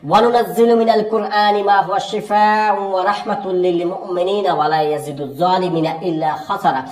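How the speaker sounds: slow, drawn-out chanted recitation; slow Quranic recitation. Shown as a demonstration. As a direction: recite the verse slowly over the patient. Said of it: "এভাবে রোগীকে কিন্তু ফু দিবেন".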